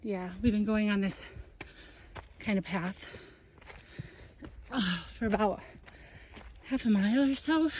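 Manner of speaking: winded, gasping for air; breathless from the uphill climb; out of breath. Real, not acted. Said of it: "Sorry I'm so winded".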